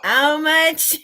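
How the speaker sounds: loud Yorkshire exclamation; Yorkshire accent. Retold or imitated. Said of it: "in a Yorkshire accent".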